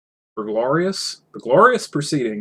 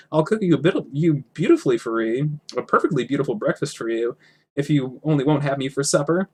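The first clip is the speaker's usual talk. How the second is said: pleading; 4 semitones higher than usual. Acted. Bilbo pleading.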